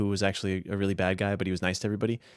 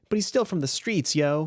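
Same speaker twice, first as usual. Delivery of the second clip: higher, tough "from the streets" voice; wannabe gangster; 6 semitones higher than usual. Shown as a demonstration. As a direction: say it like a fake-tough teen. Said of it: "archetypal rural".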